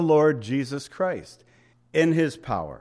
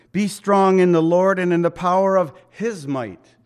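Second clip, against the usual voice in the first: forceful scripture reading; 3 semitones higher, 6 dB louder than usual. Acted.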